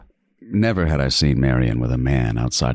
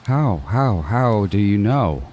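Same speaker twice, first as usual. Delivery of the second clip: much higher, startled and stammering; panicked disbelief; shocked; 7 semitones higher than usual. Acted. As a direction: sputter it out, caught off guard. Killer startled, thinks he's spotted.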